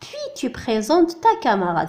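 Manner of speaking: slow, clear reading of the instruction; careful teacher read-aloud. Shown as a demonstration. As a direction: read it out slowly for beginners. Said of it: "دونك هنا".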